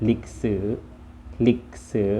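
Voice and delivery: ลิกสือ as Vietnamese, short first syllable; Vietnamese pronunciation. Shown as a demonstration. Teacher models the word for history, Vietnamese pronunciation of ลิกสือ. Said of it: "ภาษาเวียดก็จะว่าว่า".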